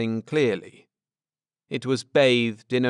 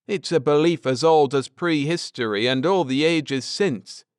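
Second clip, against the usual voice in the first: lightly voiced man explaining, a bit higher; earnest scholar laying out history; Ned, earnest; 6 semitones higher than usual. Ned explaining the Druids to his wife, lightly voiced earnest man.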